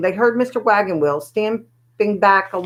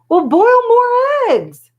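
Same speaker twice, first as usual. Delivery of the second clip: much higher, louder, slow furious roar; 6 dB louder, much slower than usual. A narrator's reading. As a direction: bellow it out, dragging every word. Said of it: "roared Mister Wagon Wheel".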